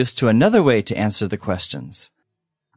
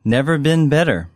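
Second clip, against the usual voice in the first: slowly; 2 semitones higher than usual. Shown as a demonstration. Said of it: "one more time slowly".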